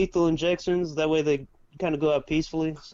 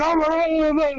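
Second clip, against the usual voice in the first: imitated happy screaming; 11 semitones higher, 4 dB louder than usual. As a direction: wail it like an overjoyed mom who can't gauge her volume. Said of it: "when she gets happy, she'll damn near makes the, the same sound".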